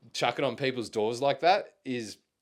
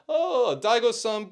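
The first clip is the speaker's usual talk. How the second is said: high, drawn-out "Oh" sliding down; re-enacted eager greeting; 9 semitones higher, slower than usual. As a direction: call it out high in halting Japanese. Re-enacting his Japanese greeting.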